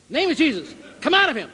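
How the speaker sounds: mock exorcist command. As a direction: order the demon out, building up. Healer casting out demon.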